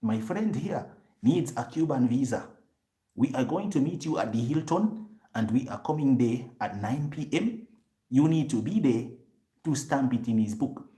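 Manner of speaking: imitating a man calling in a favour; imitating the fixer on the phone. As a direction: play the fixer setting up the deal by phone. Fixer phones the Cuban official.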